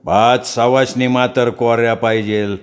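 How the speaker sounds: slow, drawn-out trance speech; possessed priest. Acted. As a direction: speak slowly as the goddess in him. Possessed priest lists demands. (घुमत बोलणारा भगत)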